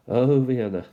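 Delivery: a playful ballad-title flourish; mock dramatic "Oh, Vienna". Song-title echo of Vienna.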